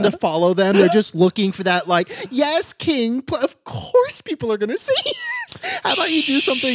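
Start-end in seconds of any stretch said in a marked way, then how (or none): 2.3-6.7 mock follower voice. Imitating follower reply.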